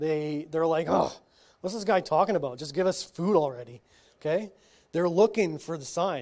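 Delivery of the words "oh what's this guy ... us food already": mock, fast, grouchy, grumbling gripe. Retelling how the crowd grumbled at Jesus's words, mock grumbling crowd. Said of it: "they grumbled".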